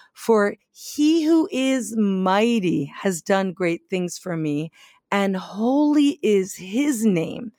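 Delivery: Mary's song read with heavy emphasis; emphasized scripture reading. Shown as a demonstration. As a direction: read it out, hitting the key words. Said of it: "I'm gonna emphasize certain words".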